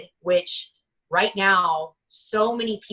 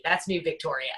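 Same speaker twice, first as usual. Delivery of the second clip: ordinary talk, nothing marked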